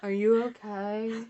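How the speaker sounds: slow, giggling gothic try; slow laughing goth attempt. Shown as a demonstration. Another gothic voice attempt, slow and laughing. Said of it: "Do your best gothic voice for me".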